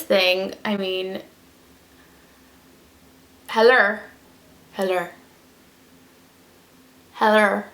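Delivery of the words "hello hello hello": mock calling out. Calling to a faint liner.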